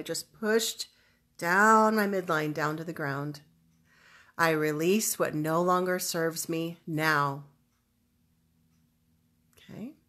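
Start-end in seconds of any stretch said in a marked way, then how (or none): 4.4-7.4 emphatic affirmation with conviction; deliberate, weighted statement; powerful declaration. Shown as a demonstration. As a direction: declare it firmly. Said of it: "very emotionally powerful declaration".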